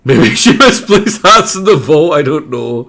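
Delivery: loud hammed-up cowboy accent; terrible cowboy accent. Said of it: "terrible cowboy accent".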